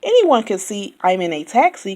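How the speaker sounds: fast, eager know-it-all driver; chatty Yak. A narrator's reading. Yak talks over Walrus, fast and eager. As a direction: rattle on like a motormouth.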